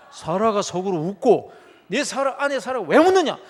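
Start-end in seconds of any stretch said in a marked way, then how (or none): 1.9-3.4 louder, higher scolding question; God scolding Sarah; angry rebuke. Acted. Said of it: "하나님께서 진노하십니다". (진노하며 꾸짖는 하나님)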